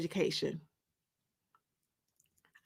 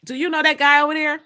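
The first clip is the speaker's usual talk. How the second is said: a touch higher and louder, quick and curious; boyfriend's voice; 6 semitones higher, 7 dB louder, faster than usual. Acted. Dom curious about the man, lightly voiced and quick. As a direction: toss off the question quickly, lightly voicing him. Dom questions her in break room.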